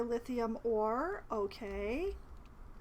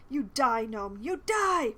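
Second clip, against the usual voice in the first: angry battle cry; 5 dB louder, slower than usual. Acted. Minsc raging, battle cry.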